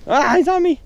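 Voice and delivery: high, loud squeal of alarm; startled yelp. Real, not acted. Angler finds a spider on him, startled squeal. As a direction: yelp in sudden panic.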